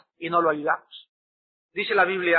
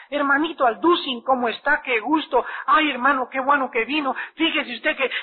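higher, hurried fretful greeting; voiced anxious sister; 5 semitones higher than usual. Preacher voicing the sister who rushes downstairs, higher and fretful. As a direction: gush out the greeting, already upset.

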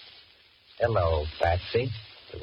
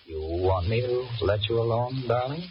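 slow, higher, honeyed question; coaxing; 6 semitones higher, slower than usual. Acted. Johnny coaxes Patricia while wanting her gone, honeyed. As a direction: sweet-talk her as if he cares. Sweet-talking Patricia aloud.

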